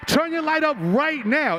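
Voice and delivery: high, pumped-up call to the crowd; hype man call. Real, not acted. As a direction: fire up the crowd. Hyping crowd at rally.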